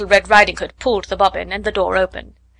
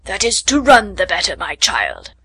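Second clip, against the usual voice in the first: sly wolf; 2 semitones lower than usual. Acted. Wolf answers as grandmother.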